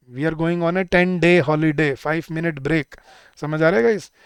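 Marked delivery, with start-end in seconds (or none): 0.1-2.0 very slow, day said singular; slow model sentence. Shown as a demonstration. Teacher giving students the correct holiday sentence slowly. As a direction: spell it out slowly, word by word. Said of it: "या ten days holiday".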